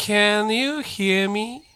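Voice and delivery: "can you" run together as "kanyu", slowly; slow linked model. Shown as a demonstration. Teacher models "Can you hear me" for students to repeat, slow and linked. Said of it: "ちょっと言ってみてください".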